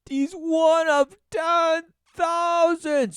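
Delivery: high, loud scoff; mock-outraged exclamation; incredulous outburst. Real, not acted. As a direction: blurt it out in disbelief. Outraged reaction to news report.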